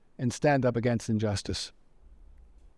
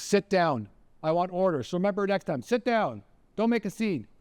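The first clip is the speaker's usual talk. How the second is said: lightly acted officer's order, pitched up; commanding Nazi officer; 5 semitones higher than usual. Nazi tells the arguing man to sit, mildly acted command.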